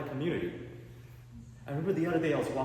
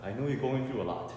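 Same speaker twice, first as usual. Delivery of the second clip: grave dad speech; 4 semitones lower than usual. Retold or imitated. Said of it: "he said".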